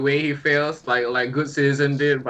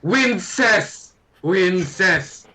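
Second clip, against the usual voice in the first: drawn-out yell to the crowd, fading on each repeat; 4 semitones higher, much slower than usual. Acted. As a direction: call out a chant, high at first then dropping away. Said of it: "and I, I yell out".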